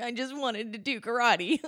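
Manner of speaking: tearful, sobbing, crying voice. Retelling sitting in a karate gi, speaker imitates their past self crying. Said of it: "sitting there like in my gi crying, being like".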